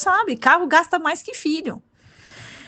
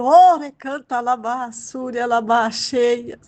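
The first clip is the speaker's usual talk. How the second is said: speaking in tongues; slower than usual. Real, not acted. Hablar en lenguas en el culto.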